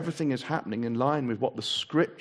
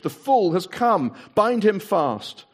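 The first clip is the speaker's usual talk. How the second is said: lightly voiced witch, slow on bind him fast; a hint of a cold witch giving orders; witch's command; 7 semitones higher, 5 dB louder, slower than usual. A narrator's reading. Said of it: "she cried".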